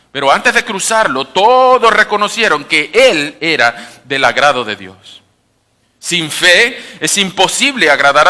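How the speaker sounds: loud, continuous Bible reading with lifted key phrases; quick scripture reading. Real, not acted. Preacher reads Hebrews to congregation following along, brisk and loud. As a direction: read the passage aloud briskly, loud and driving. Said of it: "Lo voy a leer un poco rápido".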